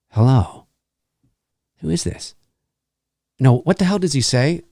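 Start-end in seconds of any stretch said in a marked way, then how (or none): 0.1-2.3 imitating Ghostface. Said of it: "it's more like".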